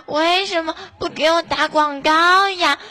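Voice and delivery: coaxing plea with the last word drawn down; whiny pleading. Pretend. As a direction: whine for the ad like a spoiled child. Begging the moderator for promotion.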